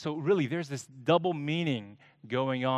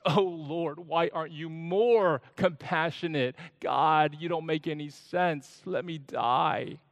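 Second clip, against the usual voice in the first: slightly higher, whining gripe; complaining; 3 semitones higher than usual. Acted. Jonah complains to God about the scorching, mildly whiny. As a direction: moan about it, sulking. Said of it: "And now he complains".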